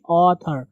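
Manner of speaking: ऑथर with a rounded open aw, between aa and o; correct pronunciation. Shown as a demonstration. Teacher to class, ऑथर with an in-between aw. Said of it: "आथर भी नहीं और ओ भी नहीं".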